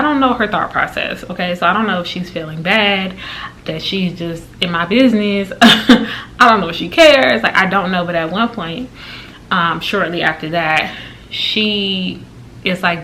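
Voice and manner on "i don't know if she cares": laughing. Real, not acted. Laughing at nosy lady.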